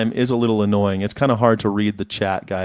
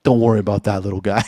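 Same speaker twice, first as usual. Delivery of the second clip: quoting cop; faster than usual. Retold or imitated. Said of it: "and he's like".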